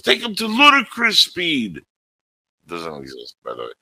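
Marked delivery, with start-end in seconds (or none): 0.0-1.8 high mock command. Quoting Spaceballs characters.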